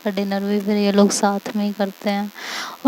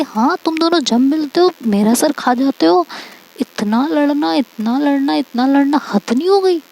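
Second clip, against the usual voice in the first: higher and louder, fed-up nagging that builds to the end; exasperated scolding; 5 semitones higher, 4 dB louder than usual. Retold or imitated. Friend telling off two bickering friends, exasperated and building. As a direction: scold them like a friend who's had enough, repeating it more each time.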